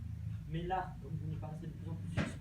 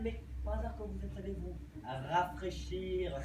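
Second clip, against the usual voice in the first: louder, slow, pressing accusation; 3 semitones higher, 5 dB louder, slower than usual. Acted. Driver loudly accuses passenger of snooping, slow and pressing.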